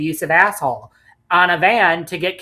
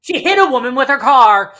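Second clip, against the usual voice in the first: higher, laughing punchline; laughing joke; 8 semitones higher, 7 dB louder than usual. Real, not acted. Co-host joking about Alicia, laughing. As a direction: squeeze the line out through laughter.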